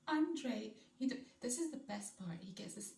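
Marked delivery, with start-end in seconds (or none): 0.1-0.7 high, loud mock-indignant name; mock irritated call-out. Imitating an irritated footballer correcting a reporter, mock indignant. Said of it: "he's speaking in French and then he's like".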